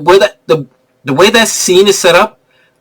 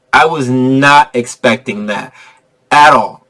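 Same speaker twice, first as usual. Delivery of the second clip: slow emphasis; 4 semitones lower, slower than usual. Real, not acted. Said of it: "slower repeat".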